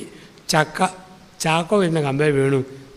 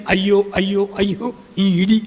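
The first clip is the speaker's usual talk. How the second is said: mock wailing; 4 semitones higher than usual. Wife beating her chest over her injured husband, mock wailing. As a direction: imitate a wife's repeated cries of woe, lightly acted. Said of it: "നെഞ്ചത്തടിച്ച് കരയുന്നത്".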